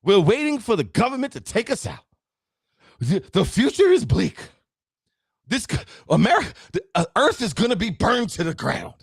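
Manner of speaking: high, whiny mock of the doomsayers; exaggerated doom-and-gloom impression; mocking doom talk. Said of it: "everything we hear is".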